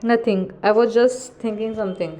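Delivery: a light crack in the voice, holding back tears; mildly cracked, trying to sound normal. Acted. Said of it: "Your voice cracked".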